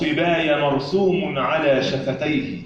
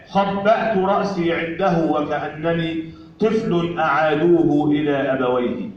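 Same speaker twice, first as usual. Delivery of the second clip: poetry recitation. Acted. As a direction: recite the poem line by line with pauses. (إلقاء شعري متأنٍّ)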